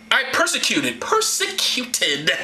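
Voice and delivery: high, then drawn-out repeat; hammed-up orator. Paul confessing to the crowd, theatrically emphatic. Reads Paul's confession dramatically.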